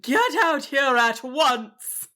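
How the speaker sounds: slow, firm command; a dragon orders the wizard out; stern demand. A narrator's reading.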